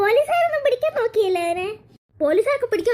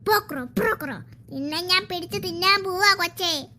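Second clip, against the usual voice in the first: menacing frog. Acted. Frog threatens the girl.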